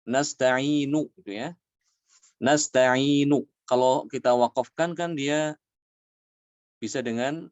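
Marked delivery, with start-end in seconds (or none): 0.0-3.5 nasta'inu with the final u fully sounded, slowly; full vowel ending. Shown as a demonstration. Teacher demonstrating the full reading, slow and clear. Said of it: "di situ ada contohnya".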